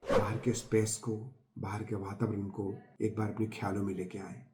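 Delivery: soft, settled meditation voice; guided meditation. Acted. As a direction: ease listeners gently into the practice, with pauses. Continues leading the guided meditation. (शांत, धीमे स्वर में ध्यान का निर्देश)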